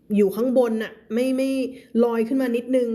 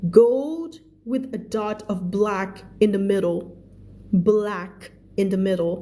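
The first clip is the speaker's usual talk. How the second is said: very slow, careful story reading; measured storybook narration with long-held words; story read-aloud; much slower than usual. A narrator's reading. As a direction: read each phrase out slowly for learners.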